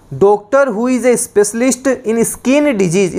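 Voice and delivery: very slow, each English word spaced for note-taking; slow dictation. Shown as a demonstration. Teacher dictating to students, very slow and spaced. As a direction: read the definition out word by word, slowly.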